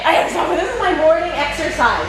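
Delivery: panting between words; winded after exertion; out of breath. Real, not acted. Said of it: "so winded".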